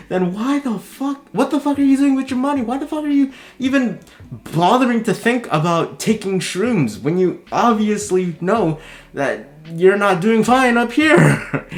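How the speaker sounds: heated rant at someone careless with their money; exasperated rant. Real, not acted. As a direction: scold them in disbelief. Ranting at the TikToker's choices.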